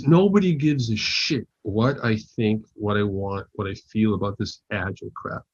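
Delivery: weighty mock Russian accent, word by word; imitated Russian accent. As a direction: vent like a fed-up Russian engineer. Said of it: "In a thick Russian accent".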